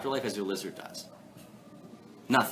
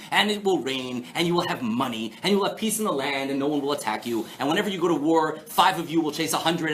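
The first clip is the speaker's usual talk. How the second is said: reciting blessings. Acted. Teacher paraphrasing Torah blessings for the class, reciting and building. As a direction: recite blessings, gathering lift toward the end. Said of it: "what the blessings and curses sound like".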